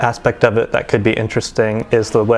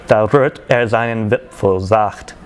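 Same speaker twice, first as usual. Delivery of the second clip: slow, measured verse reading in German; poem recitation; slower than usual. Acted. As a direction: recite it line by line as rhymed verse.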